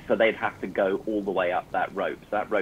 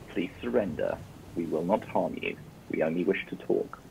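warm and persuasive; 3 semitones lower, 5 dB quieter than usual. Acted. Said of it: "in my best convincing persuasion voice".

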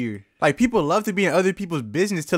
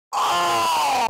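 shocked oh; 13 semitones higher than usual. Retold or imitated. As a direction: recoil as if hit by the smell. Manager shocked at the toilet.

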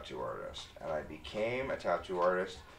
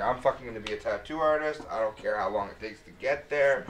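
put-on determined teen vow; 4 semitones higher, 6 dB louder than usual. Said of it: "I was like".

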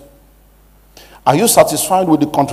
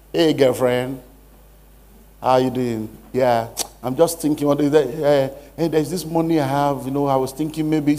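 mock girlfriend call; 4 dB quieter than usual.

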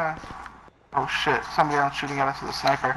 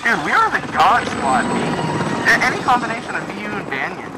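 hyped bragging; 6 semitones higher than usual. Real, not acted. Bragging about their squad.

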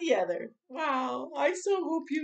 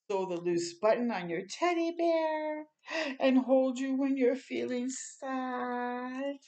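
gentle storybook reading voice; reading to children. Acted. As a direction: read it slowly and sweetly to a little child. Reading picture book aloud.

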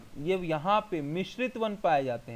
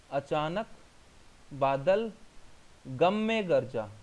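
slow word-by-word dictation; 3 semitones lower, slower than usual. Shown as a demonstration. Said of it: "इस तरीके से मैं आपको यहाँ पे बताऊँ".

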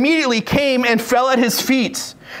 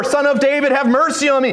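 crying out; 5 semitones higher than usual. Retold or imitated. Blind beggar keeps appealing despite being hushed, crying out. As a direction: keep calling in a raised pitch. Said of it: "he kept crying out all the more".

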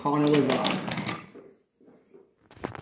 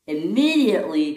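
IMMEDIATELY higher and questioning; surprised echo; 4 semitones higher than usual. Acted. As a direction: echo "Immediately" back in mild disbelief. Daisy echoes the demand.

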